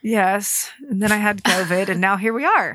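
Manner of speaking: muffled behind a face mask; through a face mask. Real, not acted. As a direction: talk through a mask over your mouth. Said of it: "it's because I have a mask on".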